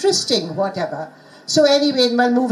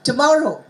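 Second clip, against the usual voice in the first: "Tomorrow" with MOR higher and stronger; stressed syllable demo; 3 semitones higher than usual. Shown as a demonstration. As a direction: lean on the middle of "Tomorrow". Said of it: "stressed syllable is always on the higher pitch".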